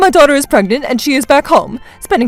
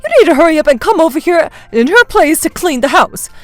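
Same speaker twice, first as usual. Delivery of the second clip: loud, high-pitched demanding complaint; complaining; 6 semitones higher, 6 dB louder than usual. Acted. Mother-in-law orders daughter-in-law over to clean, loud complaining. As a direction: nag her insistently down the phone. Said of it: "instantly started to complain to me".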